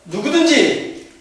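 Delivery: slow, loud pronouncement; 예수님. Acted. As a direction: declare it with weight, building to a high finish. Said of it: "예수께서 하신 말씀이에요". (느리고 힘찬 목소리로 선언하듯)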